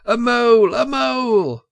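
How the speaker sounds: high, loud battle shout; war cry. A narrator's reading. Mole charging into the hall, a high loud war cry. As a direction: yell it as a charge. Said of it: "shouting his awful war cry".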